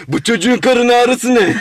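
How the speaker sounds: laughing through the words; slow, laughing mock complaint. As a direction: drag it out with a laugh. Acted neighbour complaining. (gülerek, yavaş söylenme)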